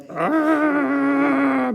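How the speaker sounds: high startled shriek; hammed-up high shriek; mock fright scream. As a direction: scream in fake terror. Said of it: "everyone screamed in fright".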